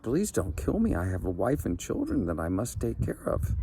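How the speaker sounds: pleading. Acted. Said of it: "pleaded with the genie".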